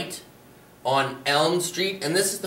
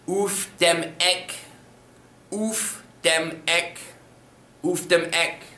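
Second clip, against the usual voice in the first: slow drill repetition; 2 semitones higher, slower than usual. Shown as a demonstration. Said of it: "And on the corner".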